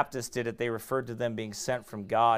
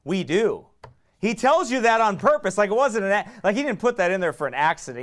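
ordinary talk

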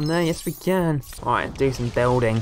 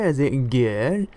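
"good" drawn out in a tentative American accent; attempted American accent; 2 semitones lower, slower than usual. Shown as a demonstration. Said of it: "how to say it in an American voice".

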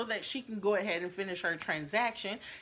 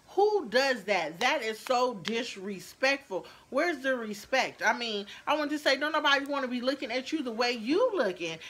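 indignant; 4 semitones higher than usual. Real, not acted. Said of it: "I was in my feelings".

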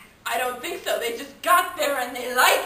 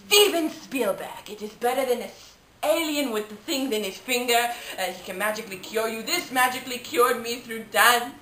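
put-on British accent. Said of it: "I've acquired a British accent".

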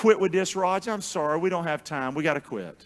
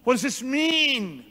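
puzzled crowd; 5 semitones higher, slower than usual. Acted. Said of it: "saying one to another".

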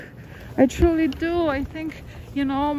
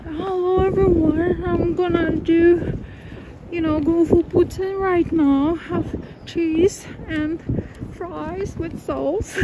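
a hint of a higher put-on voice, slowing down; lightly voiced impression, drawn out at the end; own impression; 5 semitones higher than usual. Vlogger doing her own impression for viewers, lightly put on. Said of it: "I'm doing my own impressions".

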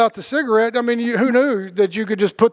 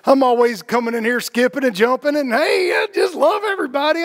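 high, bubbly mock-happy voice; lightly mocking a sunny do-gooder; mock cheerful; 5 semitones higher than usual. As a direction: play a skipping, overly cheerful person. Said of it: "Happiness to me doesn't equate to".

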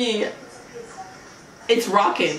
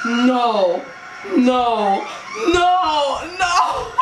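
panicked no's; 2 semitones higher, much slower than usual. Real, not acted. Scared reaction.

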